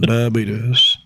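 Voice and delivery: light echo of a celebrity catchphrase; a hint of an impression, word stretched out; Wilford Brimley. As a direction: lightly mimic the famous pronunciation. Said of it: "Wilford Brimley says".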